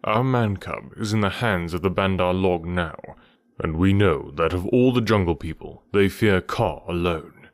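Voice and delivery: lightly voiced grave, low-pitched panther; measured, low panther addressing the snake; Bagheera the panther.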